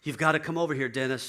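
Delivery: loud, urgent, retold panic; a wife begging for help at the door; frantic plea. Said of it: "And she's frantic".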